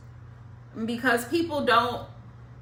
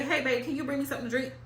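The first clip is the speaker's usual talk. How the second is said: mock quote; 5 dB quieter, much faster than usual. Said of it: "if he say".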